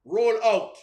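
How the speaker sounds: loud, emphatic "Roll"; stress on roll. Shown as a demonstration. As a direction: punch the word Roll. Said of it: "Emphasis on the word roll".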